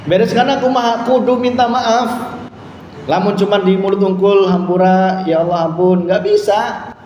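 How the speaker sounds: high, loud preacher's exhortation; preaching at full force. Acted. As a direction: urge the congregation to make amends. (khotbah berapi-api, nada tinggi dan keras)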